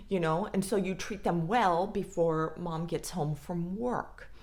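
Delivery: usual speaking voice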